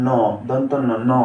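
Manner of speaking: ন sounded alone, named as dental ন; letter sound demo. Shown as a demonstration. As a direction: sound out ন, name it, repeat ন. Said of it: "এন এর সঠিক উচ্চারণ হলো". (ন আলাদা করে উচ্চারণ)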